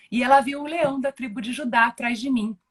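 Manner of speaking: choking up while telling it; real tears rising in the voice; voz embargada. Real, not acted. Emotional testimony of vision. (com a voz embargada de emoção)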